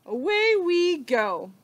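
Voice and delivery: loud slow cowboy cry; excited call. Acted. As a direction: call out as you ride off. Riding off on the pig.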